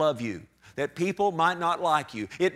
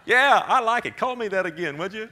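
laughing; 3 semitones higher, 3 dB louder than usual. Pretend. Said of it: "mocking persecutors gladly".

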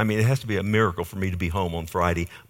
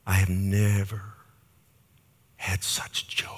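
hushed with overwhelming joy; awed whisper; slower than usual. Retold or imitated. Friend telling the pastor of his joy, hushed and awed.

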